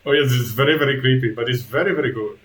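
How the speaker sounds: lightly voiced creature butler, starting loud; a hint of an eager servant, settling down; Igor, eager creepy servant. Igor reassures wary guests, lightly creepy.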